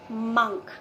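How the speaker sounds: monk said as munk, rhyming with funk; short munk, falling; correct pronunciation. Shown as a demonstration. Teacher giving students the correct monk as munk. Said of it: "का correct pronunciation होता है a".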